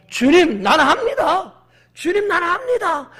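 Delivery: high, loud declaration of faith; bold challenge. Acted. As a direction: cry out your resolve to the Lord. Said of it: "막 도전을 하는 거예요". (높고 힘차게 외치는 결단의 고백)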